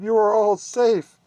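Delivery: high, loud overjoyed cry; an owner finding her lost cats; relieved cry. A narrator's reading. Madame finding her cats safe, high relieved cry. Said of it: "cried Madame".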